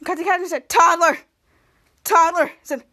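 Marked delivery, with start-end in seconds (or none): 0.7-2.5 calling out. Acted. Captain Man calling for help.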